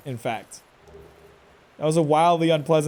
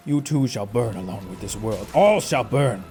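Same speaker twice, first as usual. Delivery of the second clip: ominous villain; 6 semitones lower than usual. Pretend. Quoting boss's doom line.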